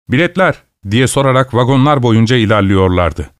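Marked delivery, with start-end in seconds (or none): 0.1-0.6 higher-pitched, courteous question; polite inquiry. A narrator's reading. Cheerful tram strikers asking passengers for tickets, polite inquiry. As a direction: ask politely, lifting the pitch.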